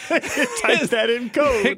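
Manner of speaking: slow mocking imitation. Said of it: "'cause sometimes if you just read the copy".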